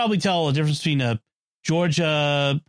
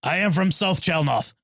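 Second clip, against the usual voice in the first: slow, higher-pitched mock South Chalnoth accent; 4 semitones higher than usual. Joking with co-hosts about fake accents, in a mock South Chalnoth accent. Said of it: "Very effective South Chalnoth accent".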